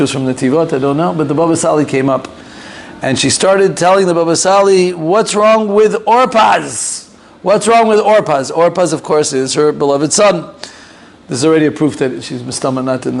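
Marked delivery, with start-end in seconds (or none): 4.9-8.5 high, slow, worried plea to the rabbi; anxious pleading. Retold or imitated. Mother in her dream begging the Baba Sali, worried and high.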